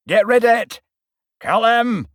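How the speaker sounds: loud, high bawl, decency forgotten. A narrator's reading. Admiral bawling at the players, high loud bawl. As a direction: roar it, all manners gone. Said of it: "bawled the Admiral".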